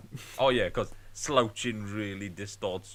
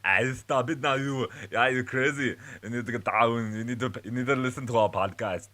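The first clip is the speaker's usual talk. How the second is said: impression; 3 semitones higher, 4 dB louder than usual. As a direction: belt it like a tough movie star. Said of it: "I can naturally go straight to it".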